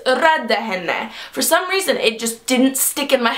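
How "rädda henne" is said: "rädda henne" slow, with an e in the first syllable; correct Swedish line. Retold or imitated. Friends reminding her of the line, "rädda henne" slow with an e vowel. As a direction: remind someone slowly: "rädda henne", e as in red. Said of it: "had to remind me".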